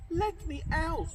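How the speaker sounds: high, loud cry to be let out; bellowed plea. Acted. Cinderella locked in the cellar, high loud bellow. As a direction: bellow from behind the locked door. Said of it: "She bellowed".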